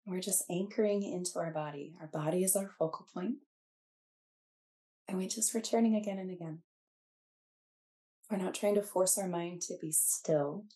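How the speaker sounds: calm, unhurried meditation guide with long pauses; guided meditation. Acted. Teacher settling students into body awareness, guided meditation. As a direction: gently lead listeners inward, leaving space between phrases.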